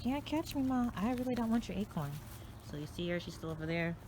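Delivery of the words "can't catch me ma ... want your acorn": much higher playful dog voice; dog's voice. Retold or imitated. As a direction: voice the dog, teasing. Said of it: "He's like".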